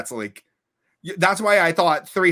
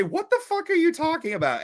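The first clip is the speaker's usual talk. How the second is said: much higher, incredulous mock disbelief; baffled friend; 13 semitones higher than usual. Friend reacting to a period mix-up, incredulous and high. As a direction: play the friend who can't believe it. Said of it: "she then proceeds to say".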